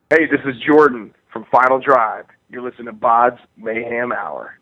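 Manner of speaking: upbeat station ID read; radio promo. Shown as a demonstration. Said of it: "you care to do a promo for the show".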